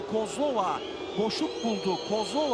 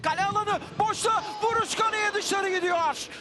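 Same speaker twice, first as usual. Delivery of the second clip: rising excitement; 5 semitones higher than usual. Real, not acted. Shot flies wide.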